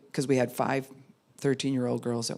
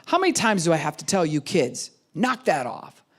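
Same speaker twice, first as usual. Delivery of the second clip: louder exasperated scold; mild scolding; 4 dB louder than usual. Retold or imitated. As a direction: nag the kids, fed up. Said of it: "a lot of times I'm mad".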